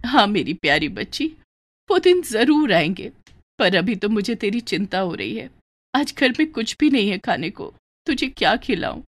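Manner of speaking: a sick poor mother speaking gently; lightly voiced frail mother, subdued; weak mother. Mother worries about food.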